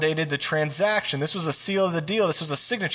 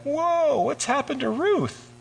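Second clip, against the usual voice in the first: high, startled mock gasp at the twist; surprised whoa; 10 semitones higher, slower than usual. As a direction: act shocked, as a listener caught off guard. Listener reacts to the story.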